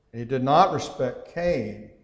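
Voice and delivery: Cain given firm emphasis; stress on Cain. Shown as a demonstration. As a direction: land with weight on the name Cain. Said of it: "I put the emphasis on the person".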